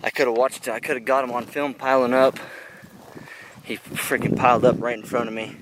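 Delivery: loud, thrilled and worked up; excited. Real, not acted. Thrilled hunter retelling kill.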